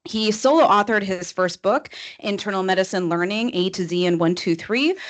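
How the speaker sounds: brisk, rattled-off formal introduction; real fast. Real, not acted. Introducing a doctor with a long list of accomplishments, real fast. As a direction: race through the speaker's credentials. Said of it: "you're gonna hear my Chicago voice go real fast".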